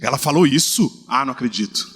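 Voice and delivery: sympathize in disbelief, hushed; mock disbelief. Shown as a demonstration. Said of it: "umas caras assim".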